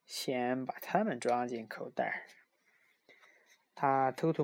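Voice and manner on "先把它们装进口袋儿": grinning Grinch. Acted. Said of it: "他咧嘴儿一笑".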